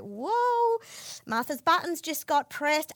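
high, loud whoa, then mock awe; shocked whoa. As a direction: react like a startled guest. Onlookers' shocked reaction.

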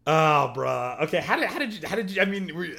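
laughing in disbelief; shocked laugh. Real, not acted. Reacting to the grim ending, laughing disbelief.

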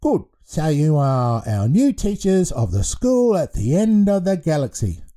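put-on a giant baby proclaiming the news; proclaiming baby headmaster. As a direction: announce it grandly like a baby headmaster. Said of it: "Blue Milk proclaimed".

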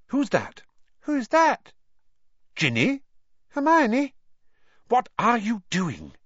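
high, alarmed voices in the dark; startled questioning. A narrator's reading. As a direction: call out, trying to make out who's there. Characters collide in the dark.

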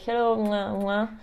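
hello with two kiss sounds; blowing an air kiss. Retold or imitated. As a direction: cheek kisses, mwah mwah. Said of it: "do two kisses".

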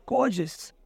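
quiet falling Gorgeous; hushed admiring. Retold or imitated. Savoring the beautiful coat.

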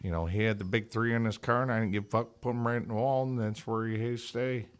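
understated tight-lipped Southern racer; soft-spoken Southern. Shown as a demonstration. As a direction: talk Southern with the mouth barely open. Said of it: "easy, soft spoken".

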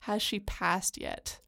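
slow, tentative question; hesitant. Retold or imitated. Retelling a man asking if his love died, hesitant. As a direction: ask it slowly and carefully. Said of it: "he speaks hesitantly".

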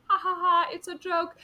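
high, loud put-on "ha ha ha"; mock laugh. Retelling a contestant's exit gag, mock laughing.

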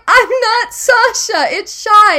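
high, loud, drawn-out correction; imitated holler setting a friend straight; retold shouted correction. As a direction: call the correction slowly across a distance.

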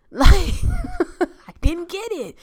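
high, giggling denial; cracking up at her own lie; laughing. Real, not acted. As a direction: laugh through the fib.

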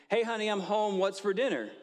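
high, loud call across the house; yell. Retold or imitated. Husband yelling to his wife from the front door. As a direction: shout it from the doorway, way up high. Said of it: "just scream, uh, yell pretty loud".

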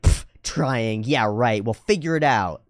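imitated derisive brush-off; sarcastic, unimpressed critic; dismissive scoff. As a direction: puff out air and mock the excuse. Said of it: "the response is like".

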